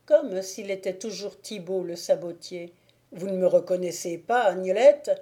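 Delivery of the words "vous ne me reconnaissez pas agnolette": fast, louder, rising to a cry on her name; urgent plea. Acted. The wolf leader pleads with Agnolette, fast and louder. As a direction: urgently beg her to know you.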